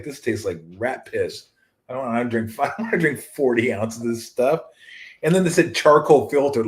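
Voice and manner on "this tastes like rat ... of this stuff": mock disgust. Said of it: "'cause they're like".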